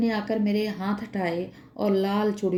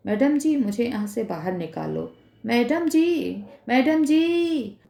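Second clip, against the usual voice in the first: screaming plea; 4 semitones higher than usual. Acted. Asylum woman screams to madam while dragged off, desperate. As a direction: scream it out as she's dragged away. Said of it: "पर वो चीखती जा रही थी".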